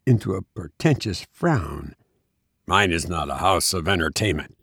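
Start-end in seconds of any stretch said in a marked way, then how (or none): 2.7-4.6 cold, lower and dismissive; haughty. Acted. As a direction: look down on the stranger. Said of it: "he said haughtily".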